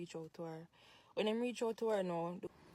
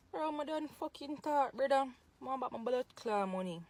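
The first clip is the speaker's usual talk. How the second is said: real angry outburst; 5 semitones higher, 5 dB louder than usual. Real, not acted. Ranting at the woman who kept his party money, loud and angry. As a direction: bark it out, furious, slowing on each word.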